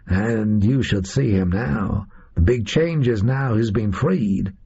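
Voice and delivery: lightly voiced American gunman, matter-of-fact; American captor. Oswald tells Holmes they need the hat, lightly voiced American captor. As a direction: explain the scheme in a casual American accent.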